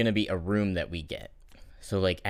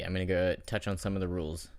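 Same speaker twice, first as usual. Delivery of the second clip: ordinary delivery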